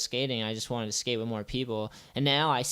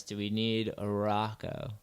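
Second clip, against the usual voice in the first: slow, deliberate "do we need a Rocco?" with weight on "need"; in all seriousness, slowly; serious; slower than usual. Shown as a demonstration. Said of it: "in all seriousness".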